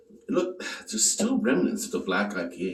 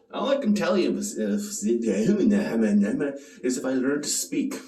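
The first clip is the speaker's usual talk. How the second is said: fumbled first take; 4 dB louder, slower than usual. Shown as a demonstration. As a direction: trip over the words, dragging. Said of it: "Take two".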